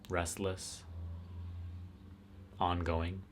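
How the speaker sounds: unhurried guidance with long pauses between phrases; guided meditation. Real, not acted. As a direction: let each phrase settle before the next.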